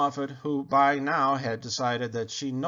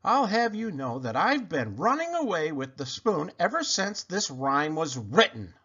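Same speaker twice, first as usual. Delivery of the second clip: holler; 4 semitones higher than usual. Acted. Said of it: "hollered the dish".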